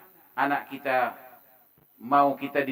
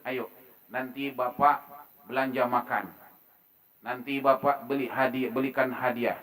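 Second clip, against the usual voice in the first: gentle coaxing; 5 semitones lower than usual. Acted. Father persuading a reluctant child with treats, coaxing. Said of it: "Itu dibujuk".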